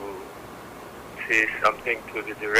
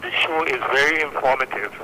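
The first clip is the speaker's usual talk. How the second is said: speaking up; 3 semitones higher than usual. Real, not acted. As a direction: raise the voice so they hear. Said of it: "can you please speak up".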